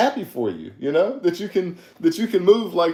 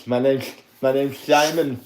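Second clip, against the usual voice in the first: a put-on goofy character introducing himself; host showing off his silly character voice. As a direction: play his silly made-up character Simon. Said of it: "I have a character".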